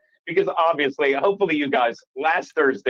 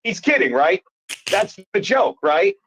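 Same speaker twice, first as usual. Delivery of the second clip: booming call from the back; 5 semitones higher than usual. Retold or imitated. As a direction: boom it out from the back of the room. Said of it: "in my booming voice goes".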